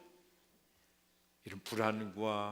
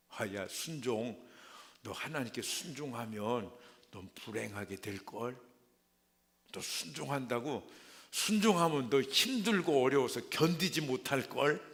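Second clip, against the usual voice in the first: tempting. Acted. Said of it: "이렇게 유혹을 하는 것입니다".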